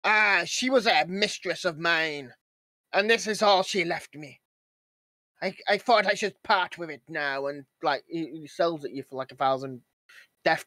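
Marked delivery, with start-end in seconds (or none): 0.0-7.5 pirate voice. Retold or imitated. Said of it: "Yes, he's a pirate".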